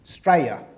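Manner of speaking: "Straya" with the opening vowel of Australia dropped; two-syllable Aussie "Straya"; clipped local pronunciation. Shown as a demonstration. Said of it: "That's how you pronounce it".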